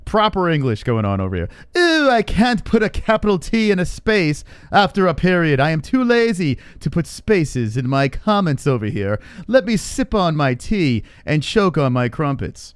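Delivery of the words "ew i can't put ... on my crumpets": mock posh British. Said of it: "read this with, like, a British accent".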